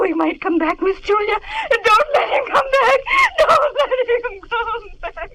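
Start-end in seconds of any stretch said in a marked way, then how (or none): 1.7-5.3 tearful pleading. Acted. Maid begs, crying.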